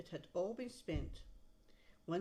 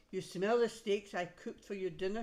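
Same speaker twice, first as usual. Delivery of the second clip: wife calming; 2 semitones higher, 5 dB louder than usual. Acted. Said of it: "his wife said".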